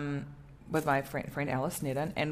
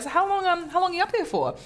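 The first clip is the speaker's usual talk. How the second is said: high, raised inquiring voice; friend's question; 13 semitones higher, faster than usual. Retold or imitated. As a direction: play the curious friend.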